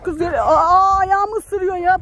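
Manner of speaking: half-crying squeal; pained yelp. Real, not acted. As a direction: yelp as a hen pecks your foot. Bitten on the foot.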